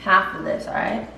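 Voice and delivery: groggy hungover morning voice. Real, not acted. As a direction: sound rough and hungover. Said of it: "You sound so hungover right now".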